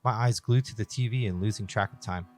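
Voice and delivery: measured first-person story reading; horror story narration. A narrator's reading. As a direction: narrate it carefully, phrase by phrase. Reads horror story aloud.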